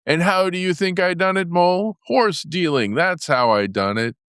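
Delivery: boastful Toad. A narrator's reading. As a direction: brag like a cocky toad. Toad boasts of his deal.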